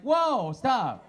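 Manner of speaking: mock shocked shout; alarmed whoa. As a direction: shut the idea down fast. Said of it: "I'm like".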